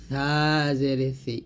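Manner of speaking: সা জের সি, s as th at upper teeth; tongue tip to upper teeth, thin সা and সি; thin lisped tha. Shown as a demonstration. Teacher models tha for learners, light lisped সা. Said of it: "আগে লাগিয়ে পাতলা করে".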